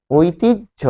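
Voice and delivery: ঐতিহ্য as "oitij", then rising "jho"; careful pronunciation. Shown as a demonstration. Teacher points at the word's last sound, careful pronunciation. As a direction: separate the final jho of ঐতিহ্য and lift it. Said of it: "এই ঐতিহ্য উচ্চারণটি গঠিত".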